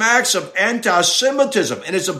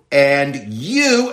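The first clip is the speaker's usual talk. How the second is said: "you" pressed down at the end; stress on YOU; 4 semitones lower than usual. Shown as a demonstration. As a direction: lean on "you". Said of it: "the you is emphatic".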